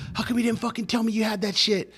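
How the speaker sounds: high-pitched retold reproach; imitated accusing question; mock indignation. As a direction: act out the cop's annoyed demand at normal volume. Annoyed cop confronts him, retold.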